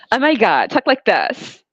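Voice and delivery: mock white-American accent; code-switched white talk. Showing how white people expect her to talk, mock white accent. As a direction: put on prissy white-people speech. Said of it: "they expect me to".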